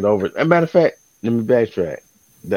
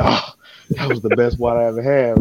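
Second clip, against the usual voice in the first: hammed-up delight; 3 semitones higher than usual. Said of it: "And I'm just like".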